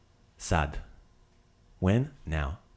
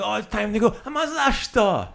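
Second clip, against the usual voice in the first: much higher and louder wailing protest; mock lament; 12 semitones higher, 6 dB louder than usual. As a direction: whine like a host who won't let guests go. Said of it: "and you're".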